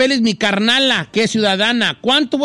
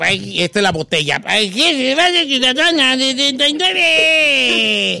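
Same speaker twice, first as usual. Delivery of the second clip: put-on, slightly drunk voice. Asked whether he is imitating someone, the speaker imitates a drunk. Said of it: "Estoy imitando a un borrachito".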